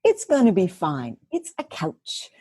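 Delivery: calming her own frustration over a couch; talking herself down. Retold or imitated. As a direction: soothe yourself about a silly couch. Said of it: "And I was just thinking".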